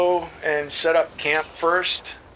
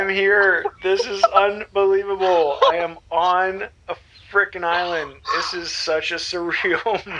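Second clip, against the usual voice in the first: satellite phone crackle. Real, not acted. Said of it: "satellite phone does tend to crackle and get some static".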